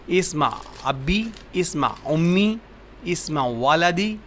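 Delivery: slow, each name lifted at the end; slow calling demo. Shown as a demonstration. Teacher calling to a parent for the child, slow and rising. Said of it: "اس طرح نہ کہتے میری بات سنیں".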